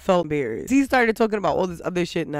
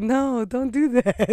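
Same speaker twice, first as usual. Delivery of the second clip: slow, lightly higher mock of Jonathan; 4 semitones higher, slower than usual. Recapping the fight, mimicking Jonathan's protest lightly. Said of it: "where did this voice come from?".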